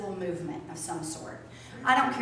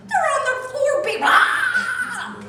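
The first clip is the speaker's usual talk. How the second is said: higher, louder mimicked child wail; mock tantrum; 9 dB louder, much slower than usual. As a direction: play the tantruming kid, laughing. Imitating child's tantrum on floor.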